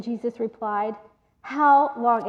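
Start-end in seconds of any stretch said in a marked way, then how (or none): 1.4-2.3 frustrated tone. Retold or imitated. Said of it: "this is the tone again".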